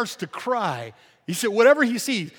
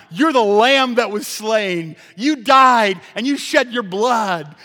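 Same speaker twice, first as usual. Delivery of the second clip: praising proclamation; 7 dB louder, slower than usual. Acted. Praise quoted in sermon.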